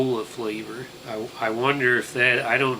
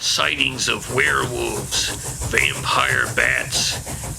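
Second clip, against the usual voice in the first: put-on Tarnation Bob old prospector; 5 dB louder than usual. Holds hick conductor character voice.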